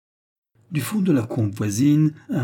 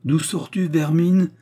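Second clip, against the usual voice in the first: high, rising, rough challenge; rough demand; 6 semitones higher, 4 dB louder than usual. A narrator's reading. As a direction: question the culprit harshly. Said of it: "ajouta rudement le brigadier". (demander rudement)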